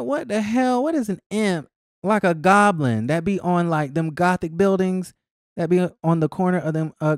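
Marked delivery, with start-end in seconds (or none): 0.0-1.7 high, lightly acted puzzlement; mild baffled disbelief. Host retelling how the word threw her, mildly baffled. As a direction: jump up in pitch as if stumped.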